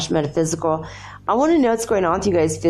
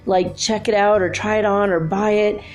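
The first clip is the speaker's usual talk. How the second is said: excited inner monologue; 3 semitones higher than usual. Retold or imitated. Inner monologue about bathing suit.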